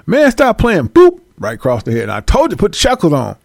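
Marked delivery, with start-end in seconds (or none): 0.1-0.9 1 high protest. Acted. Tyrone protests in skit. 0.9-1.2 sharp, high, loud boop; a cartoon blow to the head; hit sound. Brad strikes Tyrone, a loud high boop.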